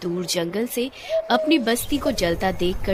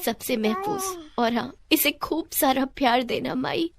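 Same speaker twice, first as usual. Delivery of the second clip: lightly voiced pleading mother, a bit higher; earnest entrusting mother; 4 semitones higher than usual. Mother asks an elder to protect her daughter, earnest.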